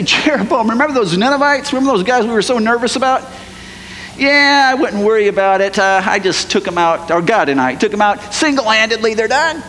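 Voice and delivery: fast, breezy boast to the king; cocky brag. Pretend. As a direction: show off to the boss. Imagined bragging to king.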